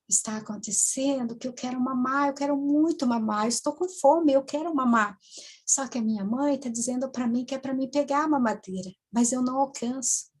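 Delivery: lightly voiced small child; a hint of a pleading little girl; mildly childlike, wanting tone. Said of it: "de criança, uma voz bem infantil".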